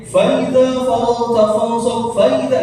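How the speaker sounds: chanted "Fa iza" run together; common mistake. Shown as a demonstration. Teacher shows a common unnoticed slip, "Fa iza" slurred. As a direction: slide over the hamzah in "Fa iza" while chanting. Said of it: "Nah, ini banyak nih".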